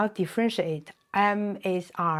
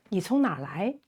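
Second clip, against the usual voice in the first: 你从哪儿来 run together briskly; natural-speed repeat; 3 dB quieter, much faster than usual. Shown as a demonstration. Teacher repeating where are you from, at natural speed. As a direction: say the whole question in one quick flow.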